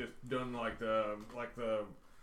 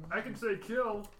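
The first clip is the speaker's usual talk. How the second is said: Bull's voice; 4 semitones higher than usual. Acted. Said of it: "Hey, this is Bull".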